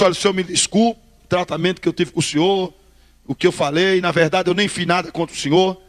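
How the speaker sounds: smooth things over gently, keeping it low; friendly, conciliatory. Retold or imitated. Sorcerer apologising to the pastor to make a deal, conciliatory. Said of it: "Eu fui conversar com ele numa boa".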